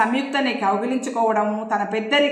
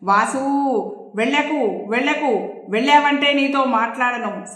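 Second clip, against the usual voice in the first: calling out; 3 semitones higher than usual. Acted. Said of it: "సంయుక్త అరిచింది".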